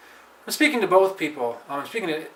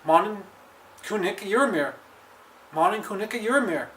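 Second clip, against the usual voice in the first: expressive reading; 5 semitones higher than usual. Shown as a demonstration. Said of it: "try to imagine being in that situation".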